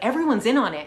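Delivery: matter-of-fact conviction, a little heightened; insistent claim. Retold or imitated. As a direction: state it as the conspiracy believer would. Guy asserts the conspiracy to her.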